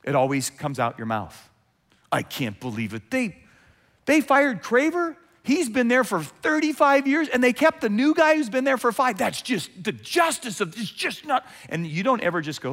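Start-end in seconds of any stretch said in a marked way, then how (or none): 2.1-11.5 mock outrage. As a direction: rant like a churchgoer who just heard gossip. Acted outraged churchgoer over firing.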